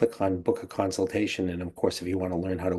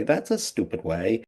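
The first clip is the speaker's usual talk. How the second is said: a mild, would-be playful jab; playful teasing. Retold or imitated. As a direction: lightly imitate a teasing wife. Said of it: "in what she thinks is a playful way".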